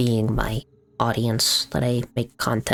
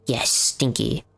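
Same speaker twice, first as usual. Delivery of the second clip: whisper; slower than usual. Real, not acted. Aside to chat.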